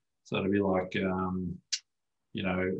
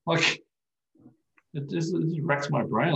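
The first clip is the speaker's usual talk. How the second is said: much higher, heated disbelief; can't believe people do this, voice climbing; worked-up outburst at the icing habit; exasperated rant; 8 semitones higher than usual. Real, not acted. Exasperated rant about icing injuries.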